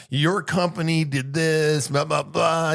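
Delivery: slow mock complaint from a grumpy passenger; imitating a passenger's slow, grumbling gripe; mock angry passenger. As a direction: drag it out like a whiny customer. Angry passengers blaming flight crew.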